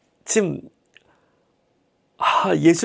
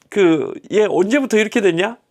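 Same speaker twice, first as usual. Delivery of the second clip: casual question. Retold or imitated. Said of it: "막 그렇게 물어보시고".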